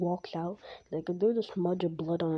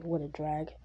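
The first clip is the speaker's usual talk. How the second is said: bored; 3 semitones lower than usual. Retold or imitated. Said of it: "that Shikamaru attitude".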